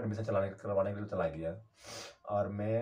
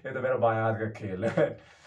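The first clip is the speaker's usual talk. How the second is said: louder, laughing brag; laughing boast; 4 dB louder than usual. Real, not acted. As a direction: crow about it through a laugh. Boasting after escaping police.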